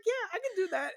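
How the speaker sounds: high, mock-eager voice; confident claim. Imitating Lane saying she can twerk, mock confidence.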